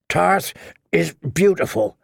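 grunted out while rowing; grunting between strokes. Acted. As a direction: push the words out mid-stroke. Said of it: "the wench grunted between strokes".

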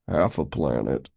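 low, dry correction; low-voiced sour correction; correcting. A narrator's reading. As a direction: put them right in a low grumble. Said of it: "Mavis corrected".

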